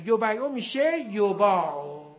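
slow یبیعو as yo-bay-o, then یباعو with long BAA; sound-change demo. Shown as a demonstration.

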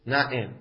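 "نعم" said na'em, with an e after the ayn; kasra on the ayn. Shown as a demonstration. Teacher repeating the variant for students, "نعم" pronounced na'em.

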